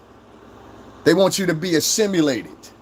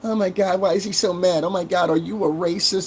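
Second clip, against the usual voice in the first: mock corny outrage; 6 semitones higher than usual. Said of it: "the little corny shit".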